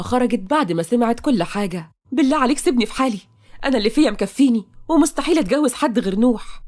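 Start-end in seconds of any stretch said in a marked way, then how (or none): 2.1-6.6 fast, higher tearful plea; desperate begging. Acted. Taqa begging her father not to force the marriage. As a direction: rush out the plea. Taqa begs to be left alone.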